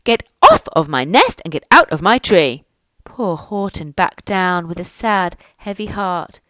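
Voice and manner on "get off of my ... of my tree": angry bird. Acted. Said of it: "she sputtered".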